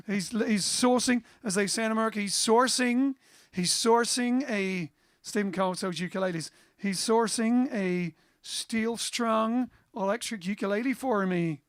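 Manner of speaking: a hint of an American accent on sourcing. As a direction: slip into a casual American accent. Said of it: "Don't know why I'm saying an American accent".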